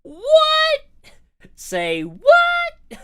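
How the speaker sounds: high, loud shocked cry; shocked shout. Real, not acted. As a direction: yell in disbelief. Shocked at the reveal.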